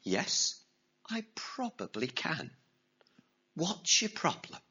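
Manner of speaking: calm voice. Acted. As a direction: answer calmly and quietly. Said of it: "the calm voice replied".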